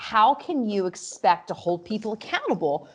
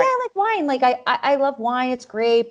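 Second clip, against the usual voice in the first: higher, mock bright yes-I-love-wine; mock enthusiastic agreement; 4 semitones higher than usual. Asked about wine, a mock eager answer. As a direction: gush about wine to fake the interest. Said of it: "And I'm like".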